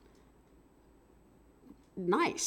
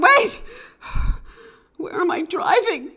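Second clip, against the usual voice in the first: breathy whisper, pitched up; a lost driver whispering to himself; confused whisper; 10 semitones higher, 4 dB louder than usual. Retold or imitated. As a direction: catch yourself and whisper it. Sudden realisation mid-drive.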